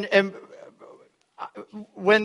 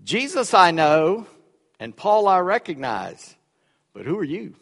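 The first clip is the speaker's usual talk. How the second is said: demon voice; 2 semitones lower than usual. Acted. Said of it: "uttered by a demon".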